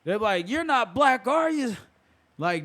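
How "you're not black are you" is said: higher-pitched skeptical quote; pitched up, acting out a suspicious question; acted doubting question. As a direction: mimic someone dubiously checking. Mimics a doubting questioner in film.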